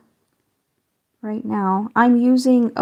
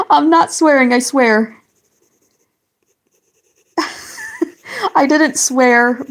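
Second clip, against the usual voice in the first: giggly denial; 4 semitones higher, 4 dB louder than usual. Real, not acted. Laughing denial to a chat viewer.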